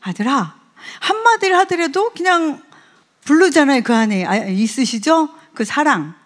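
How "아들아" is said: loving call. Shown as a demonstration. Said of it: "사랑이 엄청 들어가서 부르거든요".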